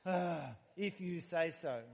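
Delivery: slow, resigned sigh into the words; sighing reluctant agreement. Retold or imitated. Pastor voicing Peter giving in to Jesus, slow and sighing. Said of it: "he sighs and goes".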